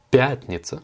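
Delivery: пятница with the weight on first syllable пя; stress on YA. Shown as a demonstration. Teacher showing the accent, пятница stressed on first syllable. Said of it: "l'accentuation elle est sur le ya".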